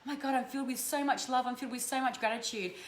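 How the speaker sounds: soft awed gratitude; heartfelt gratitude. Shown as a demonstration. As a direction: let the gratitude fill you. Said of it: "Feel it in your heart".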